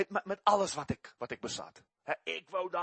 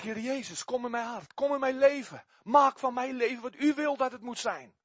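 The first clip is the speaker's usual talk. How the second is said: retold prayer; 5 semitones higher than usual. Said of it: "op die avond zeg ik".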